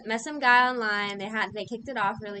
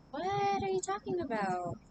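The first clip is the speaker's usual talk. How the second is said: incredulous; 9 semitones higher, 4 dB quieter than usual. Retold or imitated. Retelling her comeback to an ex, incredulous. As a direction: stretch out "what" high in disbelief.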